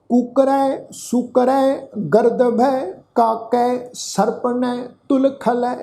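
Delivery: slow, measured verse with long-held vowels; scripture recitation. Acted. Teacher reciting a shalok to the congregation, slow sustained recitation. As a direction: recite each line slowly, sustaining the endings.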